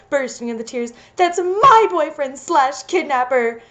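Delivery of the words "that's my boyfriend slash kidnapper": offhand afterthought. Acted. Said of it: "I added as an afterthought".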